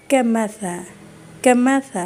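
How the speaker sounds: کمثل with soft ث, never کماسا; soft tha in کمثل. Shown as a demonstration. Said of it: "یہ بھی سا ہے". (کمثل میں ث نرمی سے، س نہیں)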